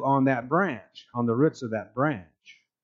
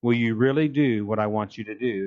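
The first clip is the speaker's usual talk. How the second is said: booming voice of God; 4 semitones lower than usual. Acted. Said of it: "massive booming voice".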